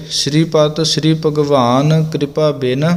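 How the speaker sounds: ਬਿਨ ending light without a nasal; soft bin demo. Shown as a demonstration. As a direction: keep ਬਿਨ soft, no ਟਿੱਪੀ sound. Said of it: "ਪੋਲਾ ਰੱਖ ਕੇ ਬਿਨ ਬੋਲਿਆ ਜਾਵੇ". (ਬਿਨ ਪੋਲਾ, ਟਿੱਪੀ ਬਿਨਾਂ)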